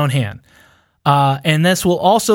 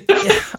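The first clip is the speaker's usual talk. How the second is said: short laugh. Real, not acted. Laughs at the confusing theory.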